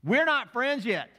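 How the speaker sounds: high, loud, indignant dog voice; acted feisty warning, hitting each phrase hard; Maggie. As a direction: tell off a stranger as an affronted dog. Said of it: "but she's saying".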